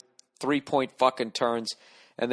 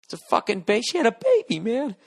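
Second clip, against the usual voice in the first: exasperated; 9 semitones higher than usual. Retold or imitated. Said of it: "I just wanna be like".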